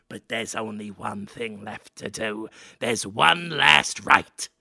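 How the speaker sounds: lightly voiced, low, slow rat man elder; a hint of a solemn old rat father; slow, low ceremonial rat dad. Rat man father speaks to son.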